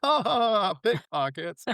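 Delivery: high-pitched mimicked cackling; doubled-over laughter. Imitating inspectors laughing at being called pickpockets, hysterical. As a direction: squeal it through laughter, incredulous. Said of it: "doubled over with laughter".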